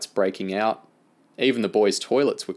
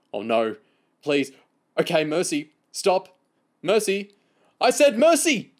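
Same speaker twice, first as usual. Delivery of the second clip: pleas climbing to a high, loud yell; tickled pleading that builds to a shriek; frantic begging; 9 semitones higher, 5 dB louder than usual. A narrator's reading. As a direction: beg in short bursts, rising to desperation. Tickled boy begging for mercy.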